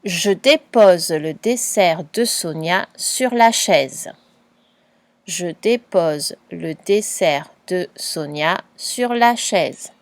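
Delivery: slow, clear dictation; slow word-counting dictation. Shown as a demonstration. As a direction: read it slowly so each word can be counted. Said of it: "tu comptes les mots".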